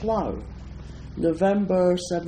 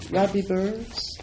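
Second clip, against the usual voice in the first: Scottish accent; 4 semitones higher than usual. Shown as a demonstration. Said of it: "Robert Burns".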